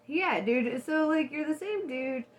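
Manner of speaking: a little high while talking; lightly stoned stoner talk. Real, not acted. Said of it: "Sorry, I'm a little stoned".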